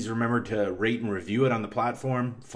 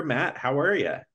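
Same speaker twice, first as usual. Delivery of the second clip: Wisconsin accent; 5 semitones higher than usual. Real, not acted. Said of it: "settled into, like, a Wisconsin accent there".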